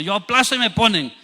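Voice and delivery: high-pitched, carefree mock confidence; cocky youth. Son counting on his parents, mock cocky. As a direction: play the youngster sure of being bailed out.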